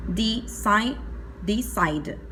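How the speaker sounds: decide split as "di-said"; decide repeated carefully, ending in a "d" sound; final D sound. Shown as a demonstration. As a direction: say decide by syllables, landing on the D. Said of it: "cuando pronuncio termina en D".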